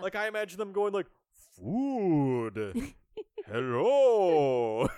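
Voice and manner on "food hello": booming voice with the word "food" stretched out. Imagining the sharks talking, the speaker voices them: King Shark voice. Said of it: "talking in like the King Shark voice".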